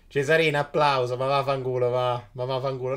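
loud annoyed swearing; angry outburst. Real, not acted. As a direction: vent at the opponent. Angry at opponent.

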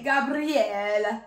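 drawn-out Italian-accented name. Shown as a demonstration. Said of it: "In an Italian accent, yes, it works".

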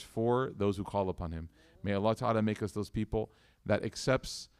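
measured, evenly paced prayer; steady litany, each line settling down at its end; closing dua. Real, not acted. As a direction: lead the congregation in earnest supplication.

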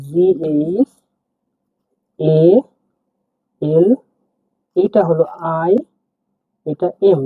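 slow letter-by-letter spelling; slow teaching spell-out; spelling out slowly. Shown as a demonstration. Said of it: "আমি ভেঙে দিচ্ছি".

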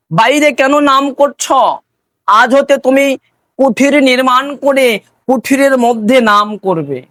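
firm, pressing instruction from a guru; stern admonishing guru. Acted. Guru admonishes disciple in story.

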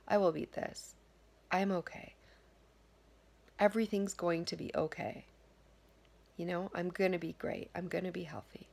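quiet, soothing self-talk, some words whispered; calm yourself down gently; softly promising yourself you'll be okay; soft reassuring affirmation. Shown as a demonstration.

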